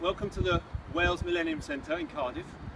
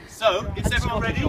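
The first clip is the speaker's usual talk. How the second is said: loud call to the group; rally everyone with a loud call; 5 semitones higher, 8 dB louder than usual. Real, not acted. Calling out to the chorus.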